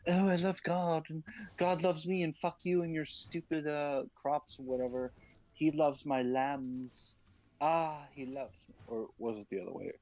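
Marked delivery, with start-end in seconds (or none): 0.1-8.8 mock smug brother.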